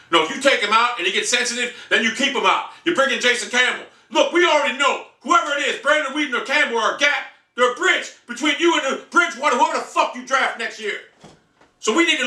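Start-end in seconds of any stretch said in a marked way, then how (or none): none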